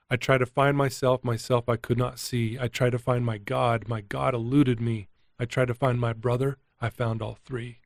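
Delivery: memorized poem with deliberate pacing; recited verse. Retold or imitated. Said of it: "I put it to my memory".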